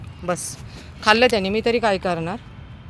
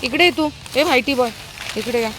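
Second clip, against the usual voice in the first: calling the dogs; 7 semitones higher than usual. Real, not acted. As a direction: call them over from across the street. Calling stray dogs over. (कुत्र्यांना मोठ्याने उंच आवाजात हाक)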